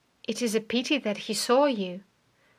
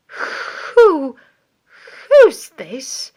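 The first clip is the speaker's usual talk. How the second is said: higher, louder startled stammer; shocked; 4 semitones higher, 11 dB louder, much slower than usual. A narrator's reading. Stapleton sees the dead convict, shocked stammer. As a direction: recoil at the sight of the body. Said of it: "heard him gasp".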